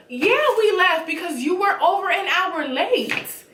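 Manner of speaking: indignant comeback. Retold or imitated. Guests answer Mia about leaving, indignant slow retort. Acted comeback in retold dinner quarrel.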